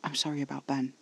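soft, hushed regret; whispered apology. A narrator's reading. Caspar apologizing to Alfie about Ben, hushed. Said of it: "Caspar whispered".

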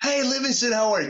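bright, high, friendly hello; cheery greeting. Pretend. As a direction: greet him like a smug star. Voicing James greeting brother.

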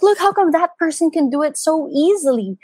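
high, put-upon complaint, lightly played; frustrated whine. At the gym, complaining to her husband in a high whine. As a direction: moan about the person who finds it easy. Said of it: "frustrated and angry".

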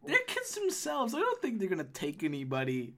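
high-pitched protesting gnome woman; Holly. Acted. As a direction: defend the kids in a high voice. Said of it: "She's high pitched".

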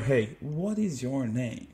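slow, classroom-drill English question; textbook English. Acted. Imitating English lessons at school, slow textbook recital. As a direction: recite it slowly like a school language exercise. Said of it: "just the standard".

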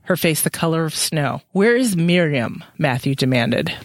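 even, measured reading voice; story narration. A narrator's reading. Podcast host reading the book to listeners, calm narration. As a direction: read it out like a novel. Reads novel aloud.

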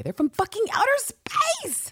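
whispered, unvoiced aside. Real, not acted. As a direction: let the indignation drop into a whisper. Exasperated aside about Kryptonians.

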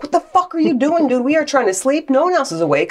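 high-pitched, mock-outraged telling-off; hammed-up sleepless complaint; exasperated rant. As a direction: scold a noisy bird in comic exasperation. Acted scolding of the noisy bird.

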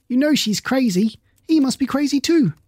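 rising high, heated accusation; upset accusation. A narrator's reading. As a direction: stir up the crowd against her. Henley accusing, purple with rage.

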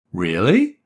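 hopeful. Acted. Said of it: "Matty asked hopefully".

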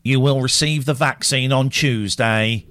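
slow, solemn official pronouncement; son's announcer voice. Retold or imitated. Eight-year-old son's catchphrase, lightly done slow announcer voice. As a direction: intone it like a public notice. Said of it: "he says it in this voice".

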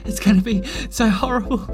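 worried rambling voice; fretting nervously about being late; anxious, panicky. Acted. Anxiety character, panicked rambling.

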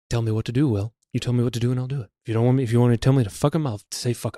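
low, quiet impression of a sycophant; lightly voiced eager underling, hushed and low; James Spader. Employee pledging obedience to his boss, low mock impression. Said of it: "Johnny Depp from Fear and Loathing".

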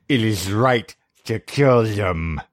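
drawn out a little high; high male voice. Acted. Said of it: "that's not the high-pitched guy voice?".

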